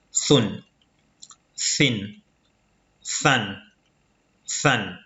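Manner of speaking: "Sun, sin, san" each begun with th as in think; tongue tip between the teeth for "Sun, sin, san"; interdental consonant. Shown as a demonstration. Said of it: "le bout de la langue entre les incisives".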